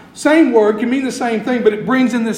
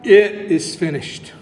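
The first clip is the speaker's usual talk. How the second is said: measured proclamation, pitched a little low; restrained cried-out declaration; 4 semitones lower than usual. Retold or imitated. Preacher quoting Jesus' cry from the cross, restrained declaration. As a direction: declare "It is finished" firmly, without shouting. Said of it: "He cries out".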